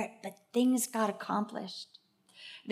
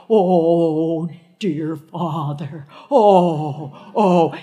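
Aunt Essie praying; 3 semitones lower, 9 dB louder, much slower than usual. Retold or imitated. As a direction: call out to the Father like old Aunt Essie. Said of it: "she'd start out with".

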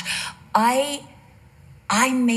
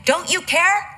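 Martha complaining; 4 semitones higher than usual. Acted. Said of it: "exactly what Martha did".

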